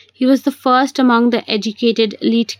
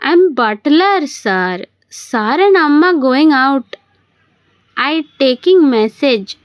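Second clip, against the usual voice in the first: higher, slow put-on South Indian accent; atrocious South Indian accent; 4 semitones higher, 3 dB louder, slower than usual. Man poses as the butler on the phone, bad South Indian accent. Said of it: "Puts on an atrocious South Indian accent".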